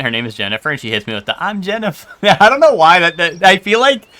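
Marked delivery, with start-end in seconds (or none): 1.4-2.1 higher-pitched Boston coworker introduction; put-on Boston accent, dropping the final r; thick Boston accent. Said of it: "super thick Boston accent".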